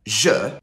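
"Je" said alone as its own syllable; one syllable at a time. Shown as a demonstration. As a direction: give "Je" by itself, then stop. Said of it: "one syllable at a time".

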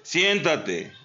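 firm loud sit. Shown as a demonstration. Trainer finally raises the tone to make the dog sit. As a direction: bark the command out hard. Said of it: "Suave y después fuerte".

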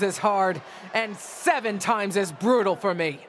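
fierce heel promo; wrestling promo. Acted. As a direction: lecture her fiercely.

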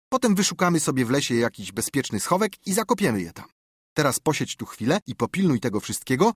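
bubbling over at the treasure; thrilled boy. Acted. Tomek plans.

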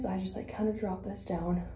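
breathless, short of air; out of breath. Real, not acted. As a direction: talk while winded. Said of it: "I don't know why I'm out of breath".

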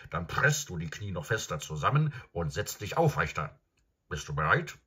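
belehrendes Pferd, etwas lauter; Pferdestimme. Acted. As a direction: wie ein Reitlehrer. Pferd lehrt Galopp. (Pferd erklärt Shasta den Galopp)

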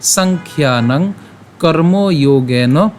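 slow recitation with drawn-out vowels; measured verse recitation. Shown as a demonstration. Teacher reads out today's shloka, measured verse recitation. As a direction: recite the shloka slowly, phrase by phrase.

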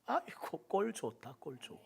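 quiet sneering taunt; mocking. Satan mocking a fallen believer, quiet sneer. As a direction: gloat softly at someone's fall.

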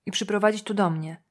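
ordinary delivery, nothing marked

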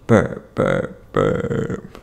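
low croaky mock burp sounds; fake burps. Reader faking burps for kids, low mock burps. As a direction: croak out burps deep in the throat.

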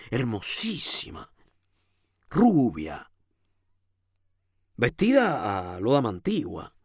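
animated storytelling with lingering emphasis; story narration. A narrator's reading. Reading the tale of Camilo before the painting, animated narration. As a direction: tell the story with lively rises and pauses.

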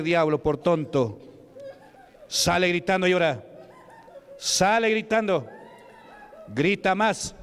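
forceful, declaimed rebuke in separate bursts; preaching at the devil. Real, not acted. Preacher telling the devil it is beaten, forceful rebuke. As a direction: pronounce judgment on a defeated enemy. Denounces the devil, orders screams.

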